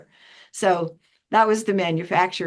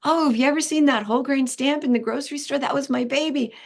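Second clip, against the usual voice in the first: proud eager boast; 6 semitones higher, faster than usual. Retold or imitated. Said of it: "And I go".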